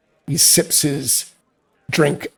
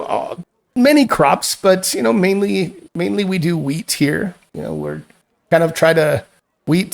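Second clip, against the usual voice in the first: lightly voiced farmer; 3 semitones higher than usual. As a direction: chat easily as a country farmer.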